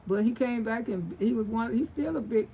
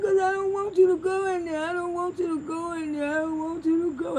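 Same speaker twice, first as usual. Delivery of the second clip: mock crying daddy; 7 semitones higher than usual. Daddy voiced crying over prison.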